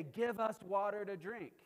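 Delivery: loud mock demand; quarrelsome demand. Thirsty people quarrel with Moses, loud quarrelsome demand. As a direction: demand it loudly, as if picking a fight. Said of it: "the people quarreled with Moses".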